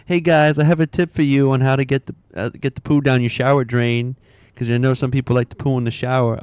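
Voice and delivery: mock TikTok woman. Retelling a gross shower-drain TikTok to viewers, mock bubbly influencer voice. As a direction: mimic a bubbly TikTok tip-giver. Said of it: "some woman was like".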